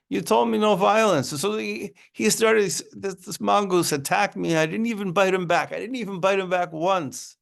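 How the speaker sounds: high, aggrieved whiny cobra voice; wounded cobra complaining. Acted. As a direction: whine it up high like a hurt snake accusing the guru.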